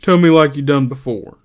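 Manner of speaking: put-on Lenny coaxing George into the old speech; craftily. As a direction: wheedle him. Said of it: "Lenny said craftily".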